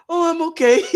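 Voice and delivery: laughing through a mock deflated reply. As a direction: poke fun at the meek answer.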